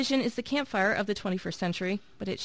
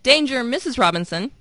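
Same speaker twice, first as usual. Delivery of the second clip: robot voice; 4 semitones higher, 8 dB louder than usual. Retold or imitated. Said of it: "the Lost in Space robot had said".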